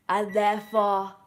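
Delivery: breathy whispered snobbish aside. Real, not acted. Vlogger confiding her snobbery to viewers, whispered. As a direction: whisper it like a guilty secret.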